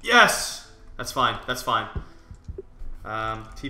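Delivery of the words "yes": excited cheer. Real, not acted. Gets wanted item in game.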